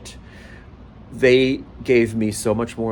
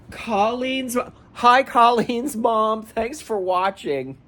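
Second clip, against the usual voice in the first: high, slow, tearful greeting; drawn-out, choked-up thanks; emotional; 9 semitones higher, slower than usual. Real, not acted. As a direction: greet her through happy tears. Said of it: "I am extremely emotional".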